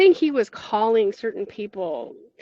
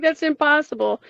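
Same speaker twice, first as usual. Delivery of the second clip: disbelieving; 5 semitones higher, 4 dB louder than usual. Retold or imitated. Woman telling her dead friend he just died, stunned.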